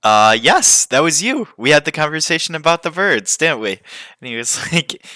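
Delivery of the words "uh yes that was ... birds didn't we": excited recognition. Retold or imitated. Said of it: "And I was just like".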